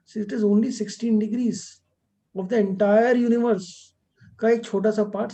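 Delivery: drawn out very slowly, each word weighed; slow right down to make the point land; slow emphatic explanation. Real, not acted. Teacher to students on the zodiac band, slow and emphatic.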